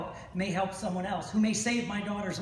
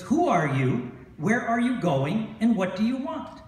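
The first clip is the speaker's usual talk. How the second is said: centurion yelling; 3 semitones higher, 6 dB louder than usual. Retold or imitated. Centurion repeats the challenge.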